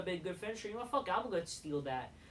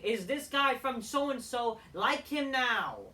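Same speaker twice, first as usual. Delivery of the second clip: mocking typical fan; 4 semitones higher, 4 dB louder, slower than usual. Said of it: "your typical".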